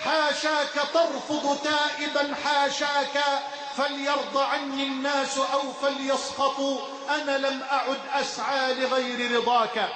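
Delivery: steady devotional recitation of verse; recited prayer poem. Acted. Preacher reciting a poem of repentance to the congregation, devotional. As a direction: recite the supplication as a humble plea.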